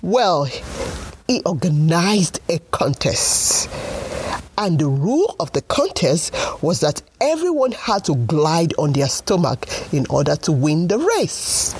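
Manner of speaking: put-on lively storybook narration for kids; story narration. A narrator's reading. Storyteller reading to children, bright and lively. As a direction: tell it like a bedtime tale.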